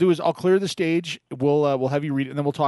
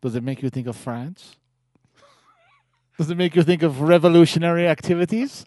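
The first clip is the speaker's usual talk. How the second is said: put-on French accent. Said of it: "what if I just use this accent".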